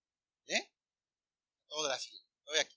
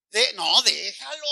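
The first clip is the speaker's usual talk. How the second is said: mock permissive parent. Parent shrugging at drunk son, mock permissive. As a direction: stretch it in mock indulgence.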